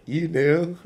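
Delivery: high, loud incredulous question; imitating a relative's shocked disbelief; retold astonishment. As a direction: blurt it out as the stunned aunt. Aunt's astonished reply, retold.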